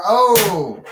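sudden high excited "Oh!"; excited gasp. Pretend. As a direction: react to the big move. Reacting to ring action.

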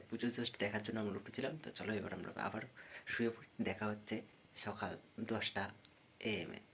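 sleepy quiet. Real, not acted. Going back to bed at dawn.

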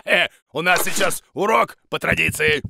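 ordinary delivery

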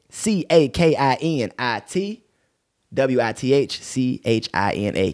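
slow, letter by letter; spelling out. Shown as a demonstration. Host giving listeners the page handle, slow spelling. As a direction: spell it out slowly for listeners to type. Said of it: "Let me spell that".

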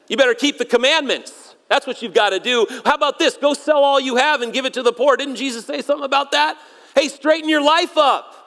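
hammed-up moralizing; mock advice. Mock answers he then rejects.

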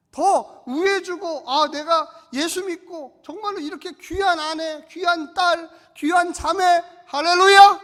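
loud, slow pulpit declaration; rousing sermon cry. Acted. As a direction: lift the hall with the promise. Preaching at full force. (우렁찬 설교 외침)

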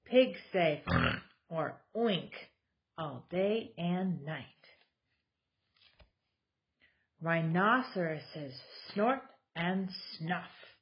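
lively, sing-song picture book reading; reading to children. Acted. Mom reading a board book to her kids, animated storytelling. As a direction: read it out like story time for toddlers.

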